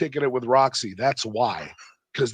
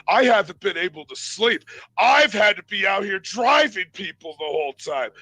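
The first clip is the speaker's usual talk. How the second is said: higher, emphatic imitation of his complaining; retold heated complaint; 4 semitones higher than usual. Driver complaining about lack of sleep, retold heated rant. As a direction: mimic an aggrieved, forceful rant.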